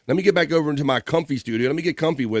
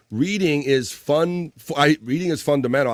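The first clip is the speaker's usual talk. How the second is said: slogan recited; 2 semitones higher than usual. Retold or imitated. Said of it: "I used to say".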